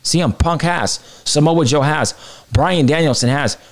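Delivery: ordinary delivery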